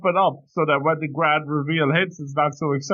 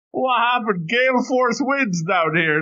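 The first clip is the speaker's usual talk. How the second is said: high mock alarm; 6 semitones higher than usual. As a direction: play up the panic, pitched high. Mock reaction to breeze.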